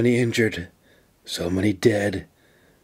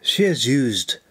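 reassuring. Acted. Officer gently reassuring a friend about the injured women. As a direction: soothe his fears about his friends. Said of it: "she assured him".

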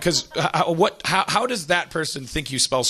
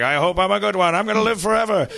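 higher-pitched hopeful graduate; naive eagerness; 7 semitones higher than usual. Acted. New salesman graduates, higher and naively hopeful. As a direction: pitch it up with innocent confidence.

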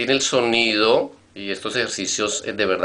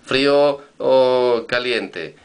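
slow example; 3 semitones higher, 4 dB louder, much slower than usual. Shown as a demonstration. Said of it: "Cuando yo digo, por ejemplo".

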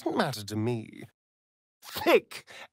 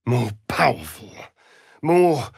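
hungry cry; 4 semitones lower, 5 dB louder than usual. Acted.

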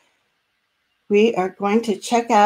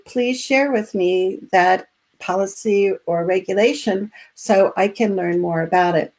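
calm polite; 2 semitones lower than usual. Shown as a demonstration. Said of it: "you have your calm advocacy mantra".

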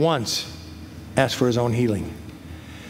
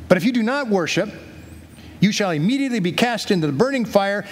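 lightly voiced royal threat, higher pitch; king's warning; 5 semitones higher than usual. King threatens three men with the fire, lightly acted warning. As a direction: read it as a mildly acted ultimatum.

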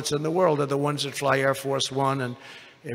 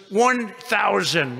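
mock computer voice; 4 semitones higher, much slower than usual. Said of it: "it's a computer voice".

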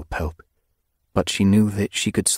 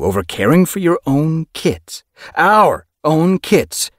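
rising to a screech; 12 semitones higher, 7 dB louder, slower than usual. A narrator's reading. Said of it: "His voice rose to a screech".

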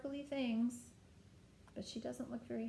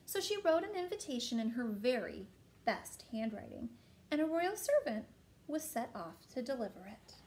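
put-on animated reading to a child, swooping pitch; storybook narration; 2 semitones higher, 4 dB louder than usual. A narrator's reading.

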